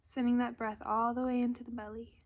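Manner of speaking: calm, unhurried guidance with long pauses; gentle meditation leader's delivery; guided meditation. Acted. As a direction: ease listeners into breath and body, leaving space. Leads a breathing meditation.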